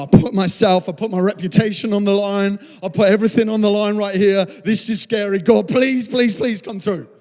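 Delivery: mildly panicked, urgent plea; anxious pleading. Acted. Believer on the line begging God, anxious pleading.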